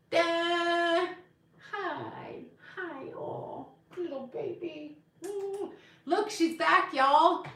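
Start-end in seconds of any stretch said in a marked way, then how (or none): 0.1-5.7 high, soft cooing to a pet. Real, not acted. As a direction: coo at the little cat. Greeting the cat in baby talk.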